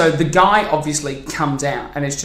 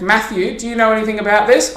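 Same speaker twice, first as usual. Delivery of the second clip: questioning mum; 7 semitones higher, 4 dB louder than usual. Retold or imitated. Mum questioning her child.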